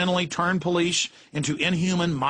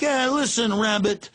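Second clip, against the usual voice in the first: cartoon gangster voice; 4 semitones higher than usual. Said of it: "And they're like".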